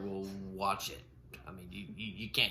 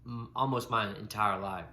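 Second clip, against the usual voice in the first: stutter; 5 dB louder than usual. Real, not acted. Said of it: "I have a stutter".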